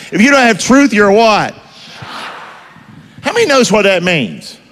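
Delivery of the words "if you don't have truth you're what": higher-pitched country twang; country accent. Shown as a demonstration. Preacher prompting the congregation to answer, country accent. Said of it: "say it like you in the country".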